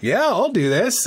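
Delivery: high, pumped-up yes; imitating a friend hyped for the plunge; eager mock bravado. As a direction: psych yourself up to jump in. Quoting people jumping in river.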